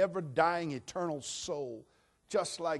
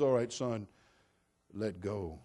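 lower, calm heavenly command; voice of God; 5 semitones lower, slower than usual. Acted. God calmly tells the hanging man to let go, low.

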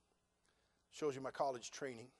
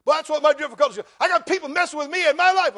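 loud, high-pitched whine of self-pity; whining complainer; 13 semitones higher, 19 dB louder, faster than usual. Acted. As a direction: wail like someone moaning about their troubles. Mimics a complainer's loud objection.

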